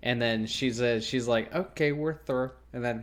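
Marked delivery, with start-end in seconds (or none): 1.5-2.5 imitated odd "Okay, we're through"; weird delivery. Mimicking a girl breaking up on the phone, oddly said. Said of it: "She says it really weird".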